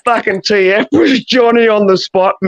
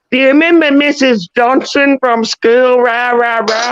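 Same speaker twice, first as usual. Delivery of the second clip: mock excited question; 6 semitones higher than usual. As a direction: ham up an eager schoolmate, pitched high. Imitating T F's excited question.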